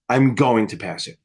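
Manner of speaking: confident. Shown as a demonstration. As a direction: say "I'm going to pass it" low and settled, sure of it. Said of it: "Say it, like, ten times with confidence".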